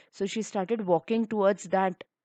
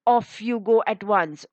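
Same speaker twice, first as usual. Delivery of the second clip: stern order; 6 dB louder than usual. A narrator's reading. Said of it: "And she threatened".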